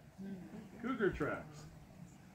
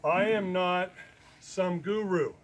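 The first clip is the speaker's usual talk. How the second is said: louder, firm I am not; emphatic denial; 3 semitones higher, 7 dB louder, slower than usual. Real, not acted. Refusing to be called a guru, loud. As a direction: plant your feet on I am not. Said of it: "emphasis on the word not".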